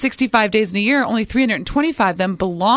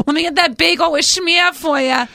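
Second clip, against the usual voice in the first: higher-pitched, hammed-up Jewish accent; mock Jewish accent; 7 semitones higher, 3 dB louder than usual. Host jokes about not sounding Jewish, mock Jewish accent. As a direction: put on an exaggerated Jewish deli-order accent. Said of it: "had to sound more Jewish".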